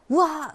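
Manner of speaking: high pretend yell of temper; mock angry outburst. Teacher acts venting that upsets the other person, mock yell. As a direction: burst out in a hammed-up "waah".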